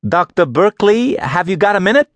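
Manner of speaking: bright and hopeful, catching his attention; young woman voice. A narrator's reading. Young woman calls to boss.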